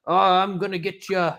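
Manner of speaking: high little elf taunting; Keebler elf voice. Retold or imitated. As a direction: play a tiny elf threatening. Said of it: "just like a fucking Keebler elf".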